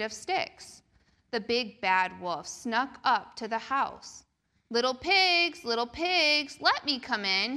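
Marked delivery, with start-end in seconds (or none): 4.7-7.6 growled. Acted. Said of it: "he growled".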